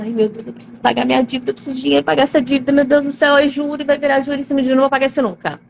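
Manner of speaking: rushed, panicky worrying about debt; mock panic. Person in debt panicking to herself, a rushed mock panic. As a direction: gabble it out like someone drowning in debt. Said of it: "Aí você fala".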